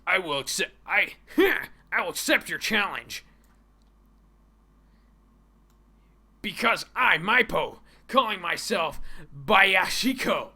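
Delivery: put-on loud dub-style challenger with Asian accent. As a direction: declare it boldly in a mock Asian accent. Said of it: "I'm going to use an Asian accent".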